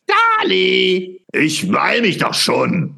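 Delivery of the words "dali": sharp call for a helper. Acted. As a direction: shout the name to summon him. Calling for Dali to come.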